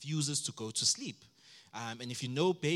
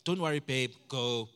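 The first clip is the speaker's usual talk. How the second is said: mock-confident boasting, louder; cocky dad; 6 dB louder than usual. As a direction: swagger like dad of the year. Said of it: "And I'm just like".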